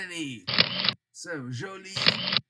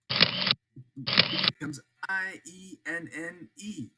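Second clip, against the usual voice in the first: slow spelling out; 4 dB louder, slower than usual. Shown as a demonstration. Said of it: "if it ends in I E N".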